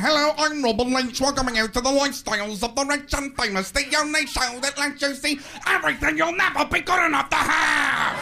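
hammed-up screaming TV host, high and loud; over-the-top shouted announcer impression; Robin Leach. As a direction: bellow a gushing show intro, building to a yell. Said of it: "Robin Leach would come on screaming".

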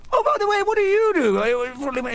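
hammed-up toff. Toff in the bar asks the stranger's job, high and hammed-up. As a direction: squeal it like an eager toff.

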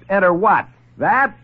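high, sharp startled question; startled disbelief. Acted. Lieutenant balks at the doctor's door, startled. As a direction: balk at the strange door.

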